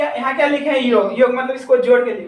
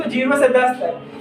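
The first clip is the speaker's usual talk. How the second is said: slow spelled-out reading; much slower than usual. Shown as a demonstration. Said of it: "इसको दस नहीं पढ़ेंगे".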